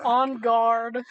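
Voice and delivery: put-on En garde in a lightly French accent; mock French fencer; French flourish. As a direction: say En garde like a dashing swordsman. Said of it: "my most American accent".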